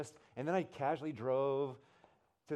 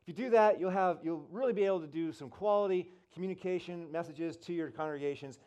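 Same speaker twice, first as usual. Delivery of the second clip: loud, higher speaker wrapping up a talk; Rick Warren; 5 semitones higher, 5 dB louder than usual. Retold or imitated. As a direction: imitate a preacher addressing a room. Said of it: "Rick's kinda wrapping up".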